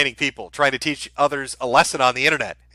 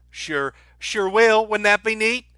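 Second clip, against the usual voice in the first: higher, slow put-on drawl; hillbilly character voice; 6 semitones higher, slower than usual. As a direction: play a dim, cheerful good ol' boy. Answers a hillbilly chat quote.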